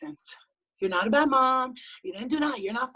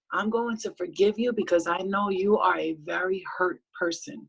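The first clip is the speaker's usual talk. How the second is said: lower, calm, measured reply; peaceful self; 3 semitones lower than usual. Retold or imitated. Her peaceful side replies to family, calm and lower. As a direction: answer like a forgiving inner voice. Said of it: "the peaceful side of me".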